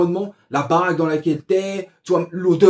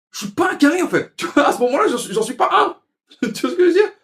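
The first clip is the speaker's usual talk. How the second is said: en riant; 13 semitones higher, 7 dB louder than usual. Real, not acted. Rit en racontant sa galère.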